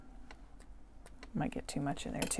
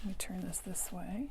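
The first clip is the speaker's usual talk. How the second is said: whispering; 6 dB quieter than usual. Real, not acted. Aside while turning paper.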